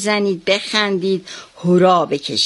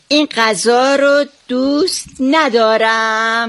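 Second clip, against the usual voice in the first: put-on sulky child; 2 semitones higher, slower than usual. Shown as a demonstration.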